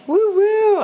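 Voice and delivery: high, loud cheer; cheering woo. Real, not acted. Cheering for her old school, excited whoop. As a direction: whoop it up like a fan.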